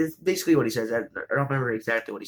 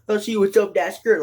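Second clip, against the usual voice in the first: mock creep voice; 6 semitones higher, 5 dB louder than usual. Guys hitting on the girl.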